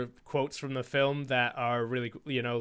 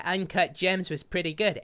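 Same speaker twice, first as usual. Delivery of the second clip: Adam Sandler impression; 2 semitones higher than usual. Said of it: "I'm gonna try to do it in an Adam Sandler voice".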